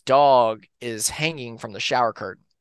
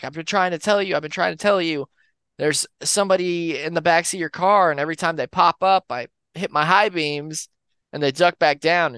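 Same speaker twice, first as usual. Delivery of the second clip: urgent warning; 5 semitones higher, 3 dB louder than usual. Retold or imitated. Warning driver about backseat killer.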